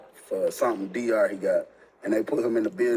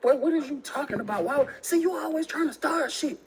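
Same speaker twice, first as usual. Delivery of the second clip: put-on girlfriend deflecting; 14 semitones higher than usual. Girlfriend voiced on phone.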